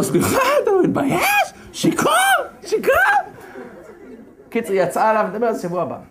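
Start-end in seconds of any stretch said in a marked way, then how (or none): 0.0-2.9 much higher, mocking scolding voice; mocking queen. Vashti scolds the drunk king, high and mocking. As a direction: scold him like an offended queen.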